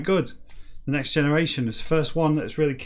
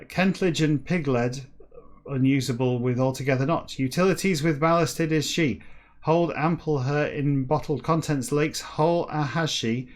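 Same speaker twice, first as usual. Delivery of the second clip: declaimed reading; 2 semitones higher than usual. Acted. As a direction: declaim each word of jumbled text with weight. Reads jumbled book text aloud.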